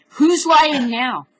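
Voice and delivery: loud, slow, accusing; angry, slow challenge. Real, not acted. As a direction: throw the question back hard. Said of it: "Oh, I'm mad".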